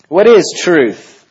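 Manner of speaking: slow, high, loud skeptical question; weary Pilate. Acted. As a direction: drag out each word in scorn.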